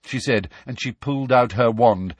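high-voiced Umbridge steeling herself; high, brisk self-justifying official; talking herself into it. A narrator's reading. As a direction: talk yourself into it, pitched high. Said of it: "seemed to be talking herself into something".

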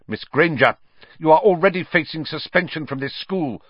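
high, cutting reprimand; spitting anger. A narrator's reading. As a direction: spit the words at a pupil. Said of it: "Snape spat".

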